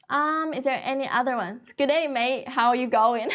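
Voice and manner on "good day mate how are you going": light Australian accent, casual greeting. Shown as a demonstration. Teacher greets livestream viewers, a light Australian accent. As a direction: greet them like an easygoing Australian, lightly done. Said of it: "Yes, Australian accent".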